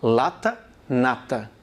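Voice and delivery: "Lata, nata" modelled for repeating at home; pronunciation demo. Shown as a demonstration. Teacher asking students to repeat, clear model words. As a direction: say "Lata" rising, then "nata" falling, crisply. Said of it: "Fala aí na sua casa".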